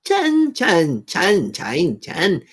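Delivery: sing-song "chan" with one big leap up; mock Thai tones. Showing viewers Thai inflection, mock tones. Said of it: "The inflection is what I'm getting at".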